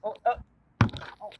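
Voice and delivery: high startled groans; dismayed oh. Acted. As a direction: gasp out in dismay. Dismay after falling.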